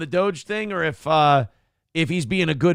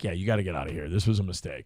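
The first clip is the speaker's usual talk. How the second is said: Trump voice; 9 semitones lower, 6 dB quieter, faster than usual. Retold or imitated. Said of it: "And Trump's like".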